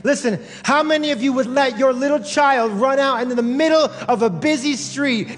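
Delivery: emphatic preaching. Real, not acted. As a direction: press the point on the congregation.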